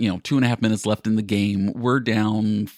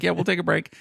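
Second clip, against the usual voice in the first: higher, breezy fake-generous tone; mock-cheerful volunteering; 8 semitones higher, faster than usual. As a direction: cheerfully pretend the break is for the team. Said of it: "I was like".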